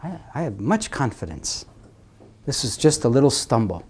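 very soft, tender reassurance; hushed, kindly encouragement; gentle reassuring Lord. Acted. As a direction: reassure softly, as God to a stumbler. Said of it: "the Lord says".

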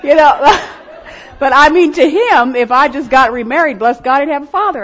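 high and loud, still laughing; laughing aside. Real, not acted. To the congregation, laughing off remarriage. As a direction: keep the laugh going as you brush it off.

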